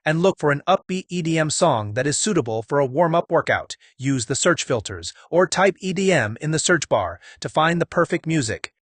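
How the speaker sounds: put-on American accent, upbeat. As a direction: play an American tutorial host. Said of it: "my American accent".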